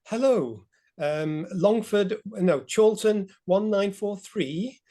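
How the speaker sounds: lightly put-on posh telephone voice; a hint of posh, measured phone manner. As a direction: answer slowly in imitated posh tones. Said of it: "kind of like a posh voice".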